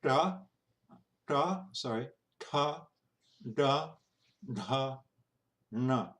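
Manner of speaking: tongue curled back to the ridge for da, ta, na; retroflex consonants. Shown as a demonstration. Teacher drilling students on tongue position, retroflex consonants. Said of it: "and that's retroflex".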